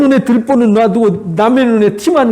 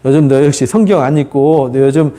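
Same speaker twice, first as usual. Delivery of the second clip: lower-pitched, matter-of-fact mock blaming; condemning; 4 semitones lower than usual. Friend claiming to comfort but blaming, mildly condemning. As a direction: pass judgment in a lowered pitch. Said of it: "이렇게 정죄하는 거하고 똑같은 거예요".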